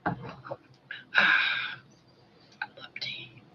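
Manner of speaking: speaking with no teeth in, sore mouth; gummy speech with dentures out; without dentures. Real, not acted. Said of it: "I do not have my teeth in my mouth".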